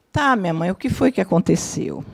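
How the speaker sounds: tender, patient reply; calm gentle tone. Shown as a demonstration. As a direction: soothe her mother, softly. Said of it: "Nesse tom".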